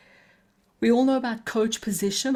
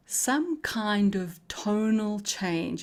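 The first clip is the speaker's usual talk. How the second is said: slowed right down, letting the pitch roll gently; slow melodic demo; much slower than usual. Shown as a demonstration. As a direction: show a calm, sing-song tonal change, unhurried. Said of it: "You see how I'm doing that now?".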